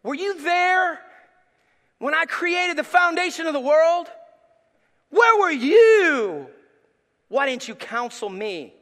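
God challenging Job from the whirlwind, slow and booming; God speaking to Job. Retold or imitated. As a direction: thunder like God rebuking Job. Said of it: "he said".

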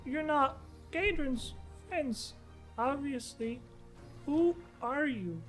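put-on small high girl, slow and wary; high, hesitant child; young girl voice.

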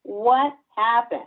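slow, puzzled parent asking; a lightly voiced confused parent; slow mock-puzzled parent asking what happened; bewildered parent. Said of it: "the parents going".

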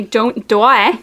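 broad Australian vowels; Australian accent. Acted. Showing friends an Australian accent, broad vowels. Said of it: "an Australian accent".

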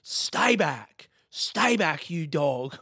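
fighting off a yawn, strained; holding back a yawn. Real, not acted. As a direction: talk through a coming yawn. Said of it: "here comes another one".

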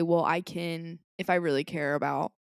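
ordinary talk

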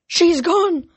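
breathless whisper of despair; whispered panic. Acted. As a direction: hiss it under your breath in shock. Jason's panicked thought.

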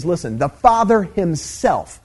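FATHER HIMSELF slow and weighted; insist, spacing out Father Himself; strong emphatic language. Retold or imitated. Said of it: "Jesus is being very strong in His language".

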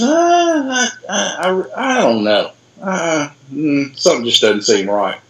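a lightly voiced doctor hunting for words; hesitant puzzled doctor. Doctor puzzling over ostrich wounds.

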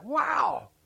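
high, drawn-out wonder; amazed. Retold or imitated. Preacher recalling himself as a kid at Ripley's, amazed. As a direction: gape in childlike amazement. Retold childhood amazement at faucet.

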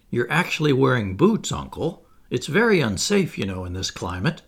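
sly, wheedling warning; greedy cunning. Acted. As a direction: coax him out of his boots. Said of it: "with greedy cunning".

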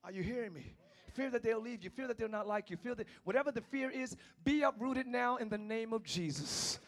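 rhythmic sermon cadence; preaching. Real, not acted. Preacher uprooting fear from the congregation. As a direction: drive each fear line home.

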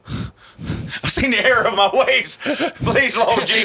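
slow, high pleading plea to the Lord; repentant addict. Retold or imitated. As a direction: beg for mercy, drawn out and laughing. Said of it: "like a drug addict going".

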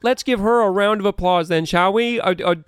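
high, fast flustered noble; flustered pompous duke. Acted. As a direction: cover embarrassment with showy cheer. Duke recovering, applause.

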